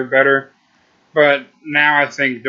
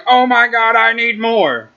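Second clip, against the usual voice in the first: high, loud gasp of wanting more; excited gush; 9 semitones higher, 4 dB louder than usual. Retold or imitated. Reviewer imitating readers begging for the sequel, excited. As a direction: gush like a fan who just finished the book. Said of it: "you will be going".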